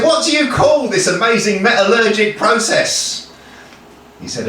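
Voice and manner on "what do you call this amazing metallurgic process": grand storytelling. Acted.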